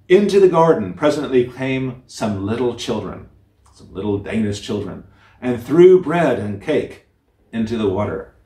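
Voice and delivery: gentle storyteller reading a classic tale; fairy tale reading. A narrator's reading. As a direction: read it like a bedtime story to listeners. Reads fairy tale aloud.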